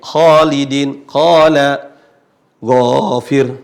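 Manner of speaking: KHALIDIN, QALA, GHAFIR, each with a heavy, long first vowel; thick long alif. Shown as a demonstration. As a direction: stretch the rounded first syllable of each example. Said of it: "maka alif tebal". (khalidin, qala, ghafir dibaca tebal panjang)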